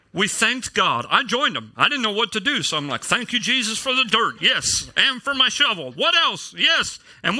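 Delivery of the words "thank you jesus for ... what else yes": higher-pitched, hammed-up praise; mock fervent thanks. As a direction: play along with an overzealous prayer partner. Joins the repeated thanking while digging.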